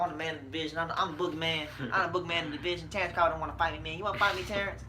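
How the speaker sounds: lightly voiced boxer trash talk; a hint of a cocky, understated fighter; Earl Spence. Host plays boxer challenging rivals, lightly put-on trash talk. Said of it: "this is Earl Spence, Earl Spence like".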